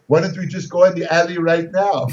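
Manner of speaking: mild, even-voiced challenge; unruffled, at an everyday level; very calm voice. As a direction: retell a calm invitation to fight. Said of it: "says in a very calm voice".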